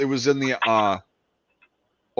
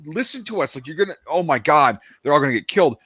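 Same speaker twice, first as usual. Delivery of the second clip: panicked French; 5 semitones higher than usual. Retold or imitated. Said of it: "the French are like".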